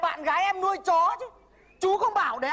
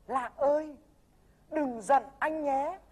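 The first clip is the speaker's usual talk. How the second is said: tender demo plea; slower than usual. Shown as a demonstration. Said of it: "chú phải nói với Lạng thế này này".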